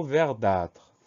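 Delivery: verdâtre drawn out slowly as ver-dâtre; syllable by syllable. Shown as a demonstration. Teacher introducing a rare word to spell, syllable by syllable. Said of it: "Première syllabe".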